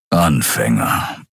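slow, low lion-like grumble. A narrator's reading. Keru dismissing the attackers, slow low grumble. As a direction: growl the word out slowly and dismissively. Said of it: "brummte Keru".

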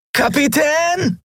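„Kapitän!“ viel höher gerufen, langgezogen und fallend; so laut er kann. Acted. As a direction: verzweifelt durch den Wald rufen. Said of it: "rief er so laut er konnte". (Miko ruft im Regen nach dem Kapitän)

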